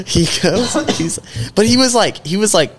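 words pushed out high through laughter; laughing through words. Real, not acted. Cracking up telling friends about the kid. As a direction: laugh while trying to get the sentence out.

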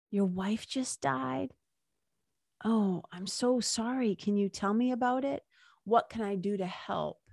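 hushed compassionate voice; tender sympathy. Pretend. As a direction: comfort a grieving stranger gently. Voicing compassionate reply to grieving father.

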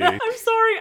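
loud apology. Acted. Repeats apology loudly.

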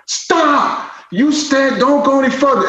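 high-pitched retold order to halt; officer's urgent warning, acted out in retelling; urgent police command. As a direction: imitate an officer halting someone.

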